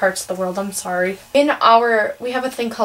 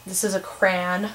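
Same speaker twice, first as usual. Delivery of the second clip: "crayon" clipped into a one-syllable "cran"; Midwestern crayon; 5 dB quieter than usual. Shown as a demonstration. Teen demonstrating the Midwestern word to viewers, Midwestern accent. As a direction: say it like a Wisconsin local. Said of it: "we say crayon".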